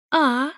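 high, short pleased cry. A narrator's reading. Lover's cry from behind the wall, short and pleased. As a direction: let out a contented ah. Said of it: "Выкрик повторился, но более низкий".

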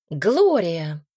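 loud, urgent call of a name; agitated call. A narrator's reading. Woman urgently hails the duchess, agitated. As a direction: call out to her in alarm. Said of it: "раздался взволнованный женский голос".

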